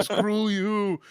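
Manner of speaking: high, loud echoed cry; mock yell. Echoing a friend's impression of co-host, mock yell. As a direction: stretch it into a high mock holler.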